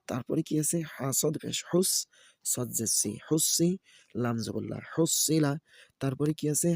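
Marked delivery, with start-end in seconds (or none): 0.9-5.5 sing-song letter-by-letter chant; Quran-primer teacher's recitation; spelling drill recitation. Shown as a demonstration. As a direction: spell each syllable, then lift the joined word. Spells out Arabic syllables for learners.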